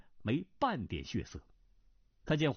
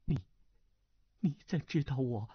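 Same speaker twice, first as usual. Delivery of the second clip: trembling. Acted. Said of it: "颤声问道".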